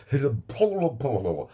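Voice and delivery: loud, high mocking blah; childish blah blah. Child attitude mocking people mid-sentence, loud and high. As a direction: tune out like a sulky child. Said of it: "my fucking child attitude".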